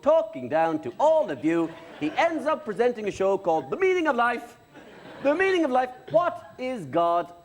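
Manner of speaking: hammed-up veteran host lecturing the audience; Gay Byrne. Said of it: "do you still do gay?".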